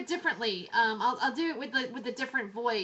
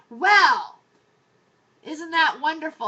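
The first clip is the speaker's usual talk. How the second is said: sarcastic; 3 semitones higher, 12 dB louder than usual. Real, not acted. Sarcastic reply to official statement.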